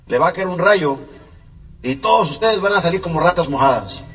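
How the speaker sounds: loud, jeering taunt from the neighbor; mock him loudly, as if laughing at the poor kids. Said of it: "Y suelta una carcajada y dice". (burla fuerte del vecino)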